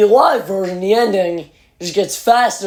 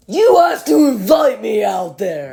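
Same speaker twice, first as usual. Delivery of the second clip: calling out; 4 semitones higher than usual. Retold or imitated. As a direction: call it out to the stage. Imitating fan calling to singer.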